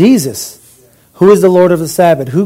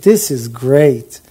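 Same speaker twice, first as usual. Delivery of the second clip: low, slow, satisfied musing; refreshed contentment; 3 semitones lower than usual. Retold or imitated. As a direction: admire your own work at leisure. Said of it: "he was refreshed in essence".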